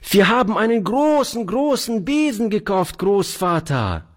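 put-on high, fast, delighted little girl; delighted child. Little girl delightedly calling to her grandfather. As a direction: burst in thrilled, showing off. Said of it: "rief die Kleine voll Entzücken".

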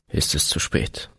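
breathy whisper of despair; whispered lament, almost gone. A narrator's reading. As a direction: let the last words die to a whisper. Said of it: "klagte er".

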